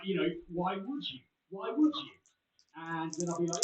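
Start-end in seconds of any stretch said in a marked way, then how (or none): 1.5-2.1 the repeat pushed higher and louder; emphatic repeat. Real, not acted. Co-host doubting anyone would break the law, higher and louder. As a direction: lean hard into it the second time. Repeats the question more forcefully.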